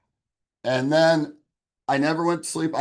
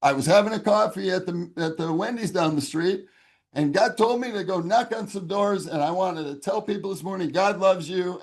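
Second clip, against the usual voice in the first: lightly voiced eager Christian, higher pitch; a hint of an upbeat door-knocker inviting people; cheerful churchgoer; 6 semitones higher than usual. Churchgoer tells the stranger God sent him, lightly eager and higher. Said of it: "he's all happy and excited".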